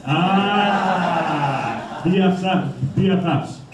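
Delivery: amused, laughing "BFFs". Real, not acted. Speaker delighted that two kids are best friends, laughing. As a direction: chuckle through the word with delight.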